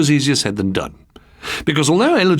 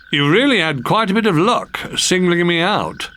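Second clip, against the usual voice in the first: posh frog prince; 5 semitones higher than usual. Acted.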